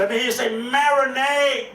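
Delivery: shouted call to the crowd; rallying call. Real, not acted. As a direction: get them to shout back. Calling crowd to repeat word.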